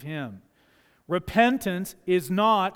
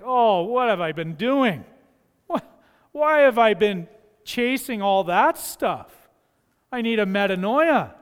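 urgent realisation; 3 semitones higher, 5 dB louder than usual. Acted. Voicing a believer's sudden repentance.

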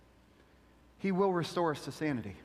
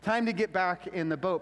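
mock alarm. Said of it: "I'd be like".

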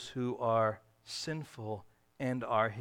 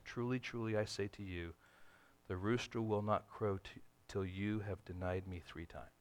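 softer, lower, tender warning; honest, tender; 5 semitones lower, 9 dB quieter than usual. A narrator's reading. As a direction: say it honestly and gently. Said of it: "speak with an honest and tender voice".

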